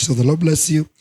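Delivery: ordinary delivery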